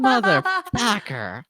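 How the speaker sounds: drawn-out, high exasperated curse; slow frustrated curse. Retold or imitated. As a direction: stretch it out in frustration. Realizing stream left on.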